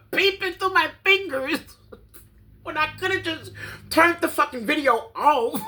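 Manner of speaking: high laughing voice. Real, not acted. Laughing at herself for peeping at the video. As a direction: laugh through the words at yourself.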